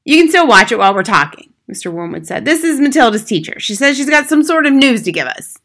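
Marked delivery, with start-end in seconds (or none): 0.0-1.5 loud, impatient husband; brusque husband. Acted. Husband to wife who wants her TV, brusque. Husband overruling wife's protest. 2.4-5.6 loud, high-pitched introduction; brusque husband. Acted. Husband introducing the teacher to his wife, brusque.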